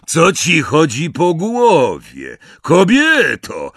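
loud, high, drawn-out protest; angry shout. A narrator's reading. Snatcher protests as his mate falls, angry shout. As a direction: shout at her in outrage. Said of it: "gniewne okrzyki jego towarzyszy".

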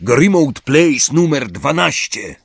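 high, drawn-out call. A narrator's reading. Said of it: "i krzyknął". (wykrzyknięte, powoli i wysoko)

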